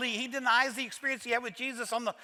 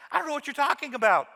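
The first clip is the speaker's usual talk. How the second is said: quick, higher, a nervous laugh first; nervous laughing denial; 4 semitones higher, 4 dB louder, faster than usual. Retold or imitated. Peter to a bystander, nervous laughing dodge. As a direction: laugh it off fast and dismiss them.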